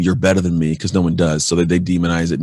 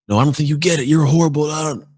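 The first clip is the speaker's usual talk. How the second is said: higher-pitched retold heckler, pushing harder; escalating mock heckler; 8 semitones higher than usual. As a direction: needle him, voice climbing, still half in jest. Heckler berating Gandhi, escalating.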